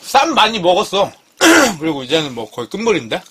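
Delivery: talking while chewing; eating a lettuce wrap; mouth full. Real, not acted. Seen 1: Chews and holds lettuce wrap near mouth while speaking.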